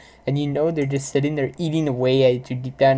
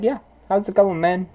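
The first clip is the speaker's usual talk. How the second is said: higher, breezy fake-casual greeting; mock casual; 5 semitones higher than usual. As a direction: act innocently chummy. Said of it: "I'd just be like".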